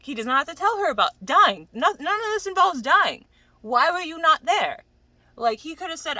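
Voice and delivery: loud, high, exasperated argument; indignant rant. Real, not acted. Rebutting bro's excuse for him, loud and indignant.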